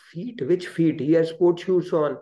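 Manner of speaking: lightly acted, indignant questioning; incredulous objection. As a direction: imitate a sceptic balking at the request. Devotee objects to bowing, acted.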